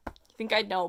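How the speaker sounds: normal talking voice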